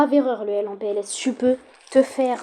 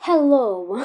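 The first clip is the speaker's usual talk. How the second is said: un Hello à l'anglaise, bien joué; accent anglais. Pretend. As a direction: fais le gentleman anglais, accent exagéré. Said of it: "J'ai un très bel accent anglais". (accent anglais caricatural)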